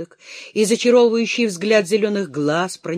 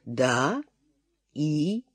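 quiet whisper; 3 semitones lower, 6 dB quieter than usual. A narrator's reading. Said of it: "тихо прошептал Аш".

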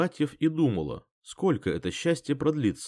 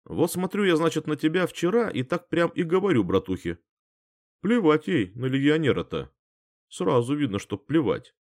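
mocking teasing; 5 semitones higher than usual. A narrator's reading. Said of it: "съехидничал Том".

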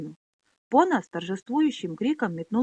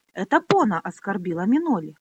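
indignant yell; 4 dB louder than usual. Acted. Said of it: "возмущённо завопил Пьемур".

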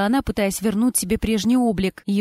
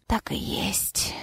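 slow, faint whisper; 9 dB quieter, much slower than usual. A narrator's reading. Dying husband agrees with his wife, faint whisper. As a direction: breathe it out slowly. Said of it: "прошептал Кирилл".

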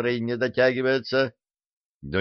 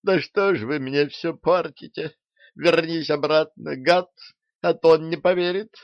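near tears; 7 semitones higher than usual. Acted. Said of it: "Чуть не заплакала девица".

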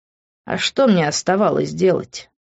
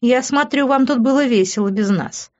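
smirking; 7 semitones higher than usual. Acted. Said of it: "усмехнулась мама".

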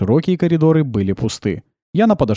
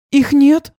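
high, plaintive and louder; 6 dB louder than usual. A narrator's reading. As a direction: ask it like a lost child. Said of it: "жалобно спросила". (жалобно, высоким голосом)

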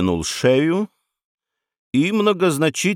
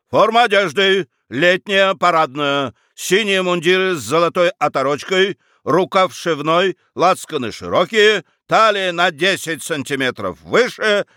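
army proclamation; 5 semitones higher than usual. Acted. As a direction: proclaim each order to the troops. Commander proclaims army orders. (торжественно-громкий приказ по армии)

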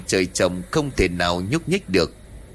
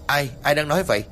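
calling out; 5 semitones higher, faster than usual. Acted. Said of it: "nó lớn tiếng hỏi".

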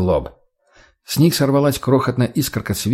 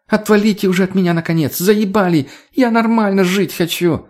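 shouting; 8 semitones higher than usual. Acted. Girl keeps shouting as she leaves.

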